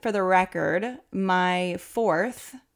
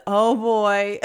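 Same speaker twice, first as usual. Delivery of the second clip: husband's fumbled announcement; 2 semitones higher, 7 dB louder than usual. Retold or imitated. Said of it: "he just says".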